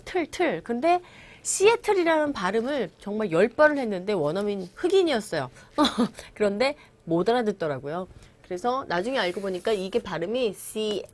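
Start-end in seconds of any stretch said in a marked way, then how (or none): 0.0-0.6 틀 with a clearly released T; distinct 틀. Shown as a demonstration. Teacher isolating the literal syllable, 틀 with a clear T. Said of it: "글자 그대로 또박또박 읽으면". 10.5-11.0 씨에 with the weight on 에; stressed second syllable. Shown as a demonstration. Teacher showing where stress falls, 씨에 stressed on 에. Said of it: "이 부분에 강세를 주고".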